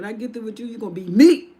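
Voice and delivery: menace, then bark the last word; threat building to a shout. Acted. Goliath threatens David.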